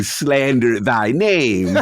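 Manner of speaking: loud, drawn-out mock proclamation; mock-grand indignation. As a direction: draw it out like a theatrical accusation. Mock-archaic jab at his critics.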